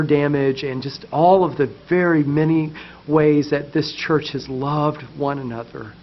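gentle heartfelt prayer voice. Real, not acted. Leads congregation in prayer.

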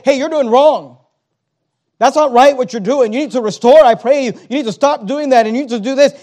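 put-on loud scolding of a teenage son; stern father rebuke. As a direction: lay down the law to your son. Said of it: "go to your teenage son and say".

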